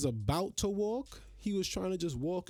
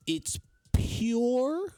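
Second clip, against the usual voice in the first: louder, higher blast of disgust; loud outburst; 6 semitones higher, 6 dB louder, much slower than usual. Real, not acted. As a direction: spit it out in an angry burst. Ranting about gym filmers.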